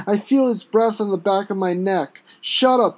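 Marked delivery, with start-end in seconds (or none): 2.4-3.0 a higher, firm order; command. Acted. Cop commands the prisoner, keeping calm. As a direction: bark the order but stay calm. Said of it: "he commands".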